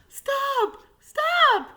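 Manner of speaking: high, loud cry of alarm; waiter's shout. Acted. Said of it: "cried the waiter".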